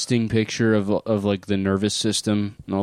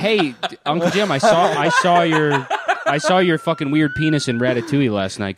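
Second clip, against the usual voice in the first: laughing; 4 semitones higher than usual. Real, not acted. Laughing while teasing.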